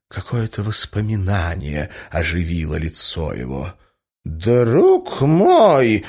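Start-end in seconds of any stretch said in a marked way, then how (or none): 4.2-6.0 exclaiming. A narrator's reading. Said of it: "вскричал он".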